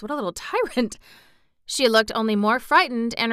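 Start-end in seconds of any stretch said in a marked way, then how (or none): 0.0-1.0 laughing aside. Real, not acted. Narrator's amused aside.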